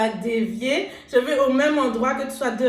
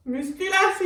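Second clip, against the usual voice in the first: proud shout; 8 semitones higher than usual. Real, not acted. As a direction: belt it out proudly. Shouted punchline.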